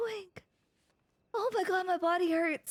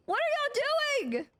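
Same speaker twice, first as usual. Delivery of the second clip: ordinary delivery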